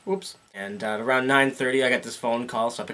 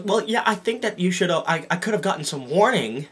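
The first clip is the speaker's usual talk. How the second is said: raised mock-whiny caller voice; lightly voiced fussy caller, higher; imitating the caller; 5 semitones higher than usual. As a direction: complain up high like a fussy parent. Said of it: "So he goes".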